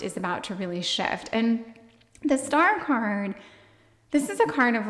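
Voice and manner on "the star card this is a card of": breathless, winded delivery; out of breath. Real, not acted. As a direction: speak short of breath. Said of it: "oh my gosh, I'm so out of breath".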